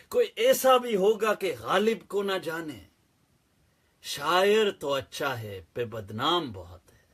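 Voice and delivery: declaimed couplet, starting strong and falling away; Urdu verse recitation. Acted. Quoting Ghalib the legend to viewers, poetic recitation.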